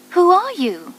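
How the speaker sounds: high, wondering bird voice; a small bird asking the crying statue; little bird asking. A narrator's reading. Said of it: "asked the bird".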